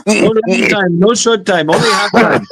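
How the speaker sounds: high mock Asian-accented English. Mocking a bar girl in a put-on Asian accent.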